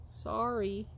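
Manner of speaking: ordinary delivery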